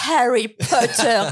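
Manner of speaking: put-on slow, deliberate Harry Potter in a French accent; careful Harry Potter. Friend slowly repeating Harry Potter to the saleswoman. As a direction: spell it out slowly for the shop assistant. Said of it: "Jérém vient à ma rescousse et fait".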